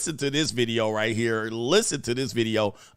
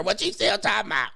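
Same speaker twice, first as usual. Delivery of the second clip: lightly voiced mammy, higher pitch; nosy mammy; 6 semitones higher, faster than usual. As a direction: imitate a mammy butting in, pitched up. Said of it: "his mammy will be in there".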